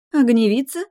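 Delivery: disdainful high sneer; squeamish. A narrator's reading. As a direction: sneer at the girl's plain dress. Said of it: "брезгливо оглядела она". (брезгливо)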